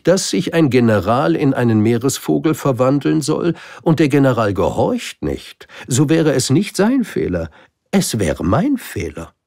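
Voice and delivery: high, loud royal reasoning; grand king. Acted. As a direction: lecture from the throne. King explains his orders. (König, hoch und laut erklärend)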